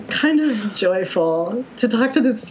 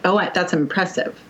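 fake impressed. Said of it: "the performing of".

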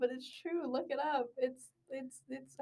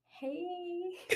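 shouted greeting; 7 semitones higher, 10 dB quieter than usual. Shown as a demonstration. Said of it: "I'm just gonna be like".

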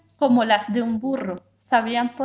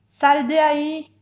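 stern call; 5 semitones higher, 4 dB louder, slower than usual. A narrator's reading.

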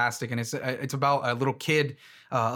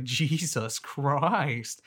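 uncomfortable; much slower than usual. Retold or imitated.

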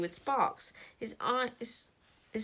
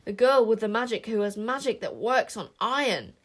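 growled out, a bit louder; growling witches; 5 dB louder than usual. Acted. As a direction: snarl it like a dog. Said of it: "growled like dogs".

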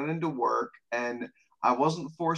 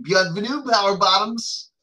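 loud, raised, whooping welcome; screamed greeting; 6 semitones higher, 6 dB louder than usual. Acted. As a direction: belt out a rowdy show-opener greeting. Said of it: "interrupting you just before you started and screaming".

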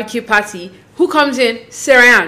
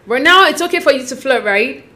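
mock call-out; 2 semitones higher than usual. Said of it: "I was like".

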